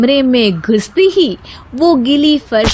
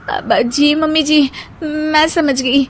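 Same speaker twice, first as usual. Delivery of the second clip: higher, timid yes-ma'am; meek daughter-in-law; 5 semitones higher than usual. Acted. Daughter-in-law meekly promising the mother-in-law. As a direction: agree meekly, a bit scared.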